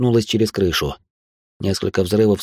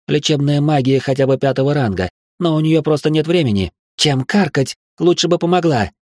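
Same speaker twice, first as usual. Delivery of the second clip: higher, sharp angry retort; barking; 6 semitones higher than usual. A narrator's reading. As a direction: snap at her to help instead. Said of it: "рявкнула Хильда". (резкий сердитый окрик)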